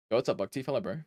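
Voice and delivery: ordinary talk, nothing marked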